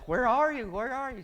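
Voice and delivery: high-pitched mock urgent demand; imitated eager girlfriend. Acted girlfriend calling out impatiently.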